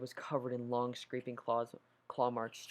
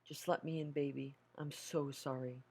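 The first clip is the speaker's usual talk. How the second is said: tearful mother; 2 semitones higher than usual. Acted. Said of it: "she started to cry".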